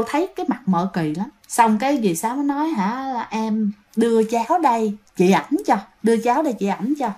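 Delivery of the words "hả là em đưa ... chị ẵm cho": soft coaxing. Retold or imitated. Coaxing possessed woman to hand baby.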